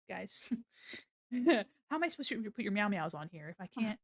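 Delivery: ordinary delivery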